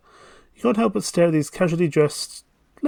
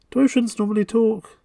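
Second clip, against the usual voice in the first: incredulous question; 8 semitones higher than usual. Real, not acted.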